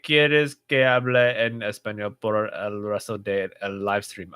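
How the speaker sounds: Spanish read out in an American accent. Real, not acted. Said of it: "It's very American now".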